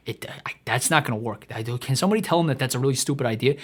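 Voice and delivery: mock agent. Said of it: "the agent's like".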